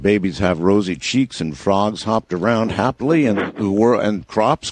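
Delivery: mock-glowing, gushing over the wonders; sarcastic rosy picture. Host mocking the guests' rosy view, sarcastic. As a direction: lay it on thick, dripping sarcasm. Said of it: "the way you guys painted it".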